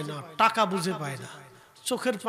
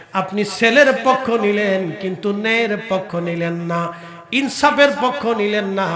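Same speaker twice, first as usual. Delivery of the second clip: melodic preaching; 2 semitones lower, 8 dB louder, slower than usual. Real, not acted. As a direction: intone the accusation, stretch out the last word. Melodic preaching, long held ending. (সুর করে টেনে টেনে ওয়াজ)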